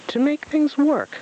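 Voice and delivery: high, slow, loud pompous owl; pompous and aflutter; fluttering. Acted. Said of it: "Owl fluttered".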